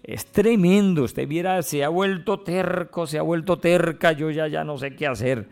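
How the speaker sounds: high-pitched mock complaint from a fed-up child of old parents; imitating a worn-out son or daughter complaining; exasperated caregiver. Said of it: "¿Cómo lidiar con la terquedad?".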